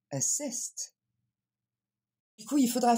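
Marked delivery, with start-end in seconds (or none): 0.1-1.0 "assist" as uh-SIST, weak first vowel; model pronunciation. Shown as a demonstration. Teacher repeats it for learners, careful "assist" stressed on SIST. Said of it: "Encore une fois".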